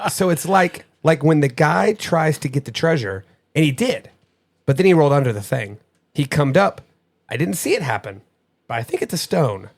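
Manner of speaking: lightly voiced child, laughing at first; imitating child's reading. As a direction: reread the kid's clue in her words. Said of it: "read this exactly the way that she said it".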